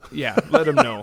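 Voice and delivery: hammed-up high, loud repeat; mock exclamation. Real, not acted. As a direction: exclaim it as a joke. Joking echo of cohost.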